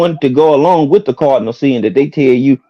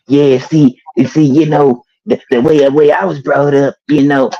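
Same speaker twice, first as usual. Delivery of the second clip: halting, lightly put-on emotional voice; mock emotional; 2 semitones higher than usual. Mocking a man as always emotional, halting put-on voice. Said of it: "Nigga, I always emotional".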